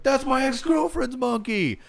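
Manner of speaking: high, loud, slow stoner yell; loud, high, slow mock Jay quote; imitating Jay. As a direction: belt the line like the movie stoner. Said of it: "yeah, he's like".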